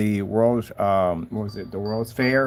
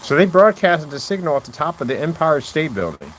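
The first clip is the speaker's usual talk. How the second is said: amazed; 7 semitones higher, 4 dB louder than usual. Real, not acted. Amazed by an Empire State broadcast fact.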